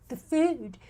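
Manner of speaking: put-on fretting liberal voice; hammed-up caricature of liberal concern; mock white liberal. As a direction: whine it as a parody of a worried liberal. Mocking white liberals' worry about food.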